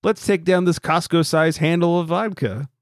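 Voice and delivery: lightly voiced party-ready dad; mock vodka guy. Podcaster imitates the neighbor with kids out of town, mock gleeful. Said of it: "he's just like".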